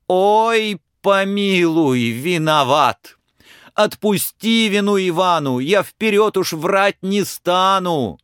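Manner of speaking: high, excited, cheeky peasant lad; a simple lad protesting his innocence; pleading Ivan. Acted. Ivan denies hiding the feather from the tsar, protesting.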